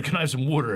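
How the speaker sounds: "wooder" with the vowel of wood; Philly pronunciation. Retold or imitated. Recalling asking for water in Philly speech, "wooder" like wood. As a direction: ask for "wooder" in Philadelphia speech. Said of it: "When I said".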